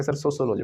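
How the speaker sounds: सोशियोलॉजी as soso-loji; students' mispronunciation. Retold or imitated. Teacher imitates students, सोशियोलॉजी said soso-loji. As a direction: quote सोशियोलॉजी with S in place of SH. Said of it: "बच्चे कहते हैं".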